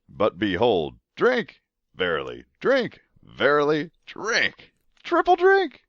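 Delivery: high, loud excited shouts; excited shouting. Real, not acted. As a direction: shout each drink with glee. Excited drink callouts.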